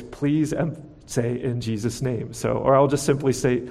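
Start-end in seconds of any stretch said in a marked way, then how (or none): 0.0-2.3 gentle fatherly prompt, softening toward the end; loving fatherly voice. Retold or imitated. Father reminding Zoe how to end her prayer, loving fatherly voice. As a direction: lightly imitate a loving dad's reminder. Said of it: "in a loving fatherly voice".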